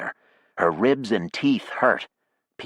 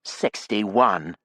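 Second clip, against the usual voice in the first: cried out; 3 semitones higher than usual. Acted. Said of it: "Jackie cried".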